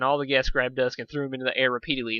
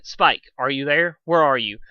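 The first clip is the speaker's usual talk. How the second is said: louder, drawn-out call across a crowded room; 6 dB louder, slower than usual. Acted. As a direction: call out to find someone.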